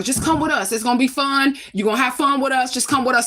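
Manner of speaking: lightly voiced lure, coaxing a child into the car; mild mock sweet-talk; coaxing friend. Friend coaxing daughter to come.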